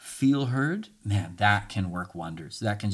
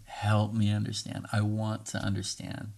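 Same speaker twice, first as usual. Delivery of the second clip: soft request; 3 dB quieter than usual. Shown as a demonstration. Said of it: "Say that with me".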